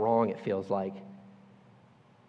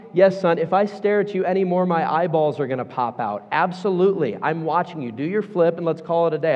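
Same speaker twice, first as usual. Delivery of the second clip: louder, fed-up parent; exasperated dad; 2 semitones higher, 4 dB louder than usual. Retold or imitated. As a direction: answer like a worn-out dad at his limit. Exasperated dad answering kid.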